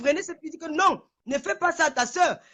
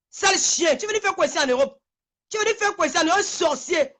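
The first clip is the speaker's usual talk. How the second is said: heated rant; 3 semitones higher than usual. Real, not acted. Woman berating a rival on her live, furious. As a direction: tear into him without stopping.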